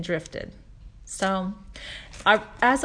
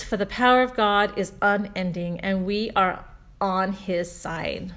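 reading scripture. Shown as a demonstration. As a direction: read it reverently, letting each phrase land. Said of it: "I wrote down".

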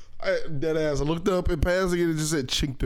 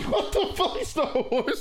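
mock shock; slower than usual. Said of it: "I was like".

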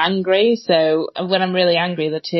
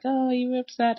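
lightly voiced, higher-pitched sympathy; mock concerned onlooker; 6 semitones higher, 3 dB quieter than usual. Onlooker to a crying colleague, imitated concern. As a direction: imitate someone gently asking.

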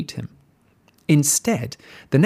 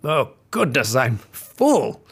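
full wolf; slower than usual. A narrator's reading. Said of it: "with a big burp".

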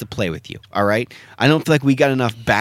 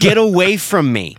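indignant fish quote; 5 semitones higher, 4 dB louder than usual. Retold or imitated. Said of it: "and I quote".

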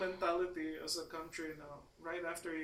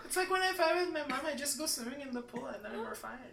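put-on valley girl; 6 semitones higher than usual. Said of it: "I love my Valley Girl accent".

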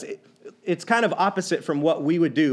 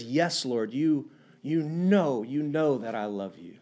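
heartbroken; 4 semitones lower, 5 dB quieter than usual. Retold or imitated. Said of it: "Peter was heartbroken".

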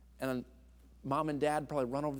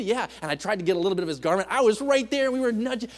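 lightly voiced old man, eager and high; a hint of a grandpa bragging to the kids; old grandpa storyteller; 8 semitones higher, 9 dB louder, faster than usual. Old man telling his grandchildren he met Jesus, lightly voiced and eager. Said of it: "an old man".

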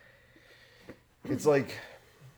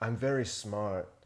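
mock NPR listener; slower than usual. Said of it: "That's a good accent".

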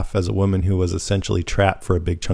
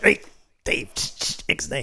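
hushed warning; 5 semitones higher, 4 dB quieter, slower than usual. Retold or imitated. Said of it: "his publicist is like".

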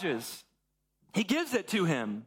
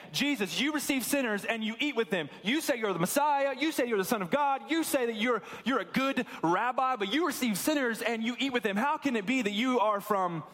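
raised pitch, insistent challenge; accusing Pharisees; 3 semitones higher than usual. Acted. Religious leaders challenging Jesus over eating with sinners, insistent accusation. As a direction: voice their mounting objection, stressing each charge.

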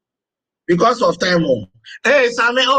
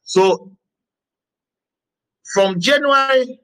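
measured dictation. Acted. Dictates dates and elements to the class.

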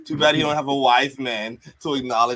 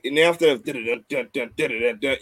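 hummed entrance theme; 3 semitones lower than usual. Retold or imitated. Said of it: "the change in his music".

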